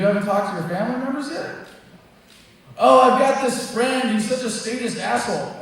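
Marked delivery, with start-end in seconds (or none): 2.8-5.6 higher, louder, slowed-down sneering whine; mock whiner. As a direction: parody the griping activist. Mocking complaining activists.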